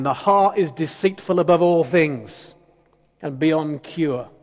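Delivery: mildly thundering scripture quote; touch of pulpit thunder; thundering preacher. Retold or imitated. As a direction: imitate a preacher thundering, a little held back. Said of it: "heard a preacher thundering".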